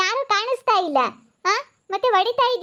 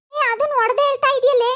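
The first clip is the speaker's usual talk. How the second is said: higher, louder angry yell; angry shout; 5 semitones higher, 4 dB louder than usual. Acted. Woman shouting at neighbour for hitting her. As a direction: snap back at her furiously. Women quarrel over being hit.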